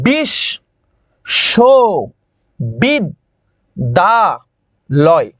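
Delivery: বিশ, শো, বিদ, দা, লয়, each syllable alone with a full pause after it; pausing between syllables. Shown as a demonstration. Teacher showing students the five stops in বিশ, শো, বিদ, দা, লয়, syllable by syllable. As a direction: break বিশ্ববিদ্যালয় into five separate beats: বিশ, শো, বিদ, দা, লয়. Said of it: "পাঁচবার আমি থামছি".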